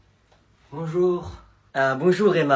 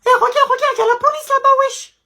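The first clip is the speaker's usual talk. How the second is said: excited. Acted. Excited kid spots police.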